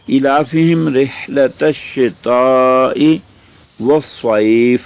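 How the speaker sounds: measured Quranic chant; teacher reciting the verse for students; Quran recitation. Acted. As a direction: recite the verse in tajweed style.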